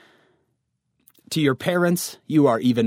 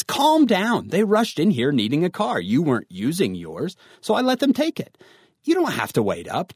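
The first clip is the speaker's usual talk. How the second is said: mad father; 4 semitones higher than usual. Acted. Father justifies lending the car to his teen, mildly annoyed. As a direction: defend yourself with mock parental annoyance. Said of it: "your father actually gets mad at you".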